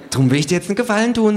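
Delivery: high, fast kangaroo voice; hurried kangaroo. Acted. Kangaroo offering narrator a favour, high fast. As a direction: rattle off the offer.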